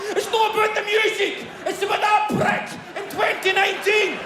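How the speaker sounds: high-pitched ranting, breaking into laughter; high laughing rant. Retold or imitated. Frustrated man venting an old grudge to his family, high laughing rant. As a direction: let the old grudge burst out high and wild.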